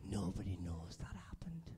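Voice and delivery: slow hushed whisper. Shown as a demonstration. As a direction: murmur it like a shared secret. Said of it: "And then just whisper".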